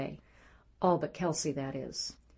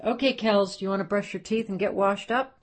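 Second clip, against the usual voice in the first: cheerful offer; 4 semitones higher, 5 dB louder than usual. Acted. Father cheerfully offering at bedtime.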